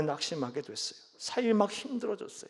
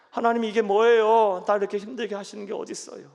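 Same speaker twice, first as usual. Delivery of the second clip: complaining prayer; 7 dB louder than usual. Shown as a demonstration. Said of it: "하나님 앞에 하시라니까요".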